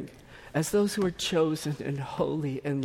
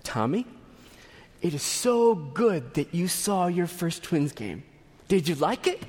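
calm and clear. Pretend. Pastor calmly instructing a three-year-old at the game, calm clear voice. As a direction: speak to the boy calmly and plainly. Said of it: "say in a calm and clear voice".

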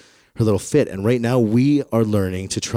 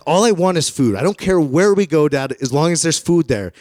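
high, louder exasperated whine; whiny pleading kid; 6 semitones higher, 5 dB louder than usual. Retold or imitated. Boy tells his dad he only wants food, whining high. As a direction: beg like a hungry kid.

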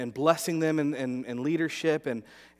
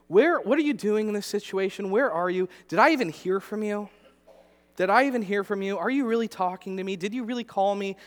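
pleading doubt; 5 semitones higher, 3 dB louder than usual. Retold or imitated. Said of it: "arguments with God".

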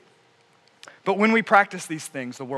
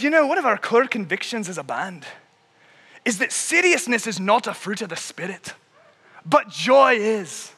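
put-on Irish accent. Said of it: "says in this beautiful Irish accent".

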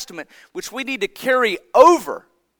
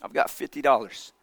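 put-on child's quiet plea; 8 semitones lower, 9 dB quieter than usual. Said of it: "and said".

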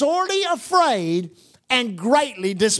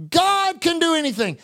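higher-pitched proclaiming of faith; retold declaration; 6 semitones higher than usual. Old preacher proving a point in a meeting, declaring. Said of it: "he made that declaration".

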